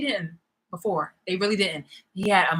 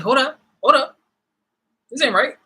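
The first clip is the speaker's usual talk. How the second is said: mock protest; 4 semitones higher, 7 dB louder than usual. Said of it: "Then it's like".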